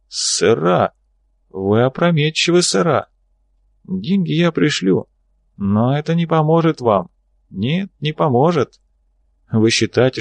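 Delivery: lightly voiced hoarse old governor; hoarse gurgling voice. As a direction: rasp and gurgle the threat. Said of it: "хриплый булькающий голос губернатора". (хриплый булькающий голос)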